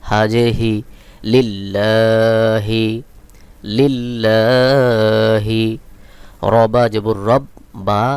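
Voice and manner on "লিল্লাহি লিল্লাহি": লিল্লাহি with লা held long, short হি; slow sustained লিল্লাহি, stretching the middle আ; long vowel recital. Shown as a demonstration. Teacher joins syllables for learners, লিল্লাহি with drawn-out লা. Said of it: "লাম খাড়া জবর লা".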